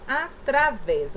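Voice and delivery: "através" spelled out by syllable, weight on "vés"; stress on last syllable. Shown as a demonstration. Teacher giving pupils an example, stressed final "vés". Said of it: "é a última sílaba".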